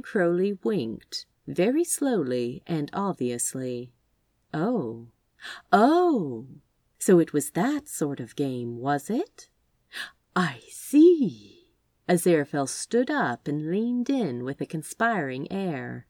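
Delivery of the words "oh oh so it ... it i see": pleasant surprise. Acted. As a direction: realise it and enjoy it. Aziraphale catches on to game.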